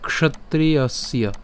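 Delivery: ক্ষত্রিয়স্য drawn out as kshotriyasya; ক্ষত্রিয়স্য spoken slowly for students; slow syllable demo. Shown as a demonstration. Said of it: "তাহলে ক্ষত্রিয়স্য".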